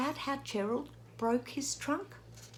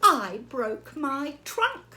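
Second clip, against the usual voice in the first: slow, louder elephant answer; glum Gerald; 4 semitones higher, 5 dB louder, slower than usual. Acted. Gerald tells Piggy about his trunk, slow and loud. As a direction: drag it out like a sorry elephant.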